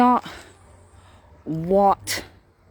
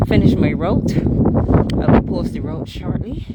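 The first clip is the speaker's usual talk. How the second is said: out of breath; 4 dB louder than usual. Real, not acted. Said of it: "I'm still catching my breath".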